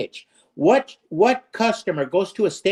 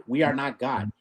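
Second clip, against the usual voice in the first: "We are not God" echoed softer, sinking low; quiet repeat; 5 semitones lower, 6 dB quieter than usual. Real, not acted. Host repeating his point softly to sink it in. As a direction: drop it to a hush the second time.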